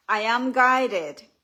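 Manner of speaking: loud, slow, emphatic declaration; spoken affirmation. Shown as a demonstration. Author answering fear with truth, emphatic affirmation. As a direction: declare it with full conviction. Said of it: "speak back with truth".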